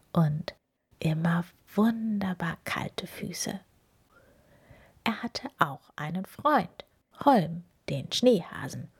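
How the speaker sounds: measured picture-book reading; story narration. A narrator's reading. Reader telling children about the snowman and hare, storytelling. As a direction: read it out carefully with storyteller's pauses.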